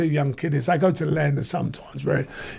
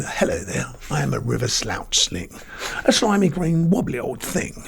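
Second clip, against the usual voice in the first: Queen's English. Shown as a demonstration. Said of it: "I'll speak properly now".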